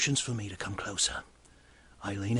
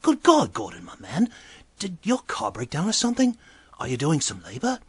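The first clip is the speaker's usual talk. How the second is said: excited greeting; 6 semitones higher, 5 dB louder than usual. Retold or imitated. Bartender greets Gordon excitedly.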